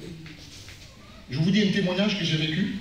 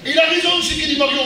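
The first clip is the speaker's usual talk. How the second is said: higher and louder, the father siding with his son; father's loud agreement; 8 semitones higher, 6 dB louder than usual. Retold or imitated. Father agreeing at the table after banging it, louder. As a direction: bang the table and back him up.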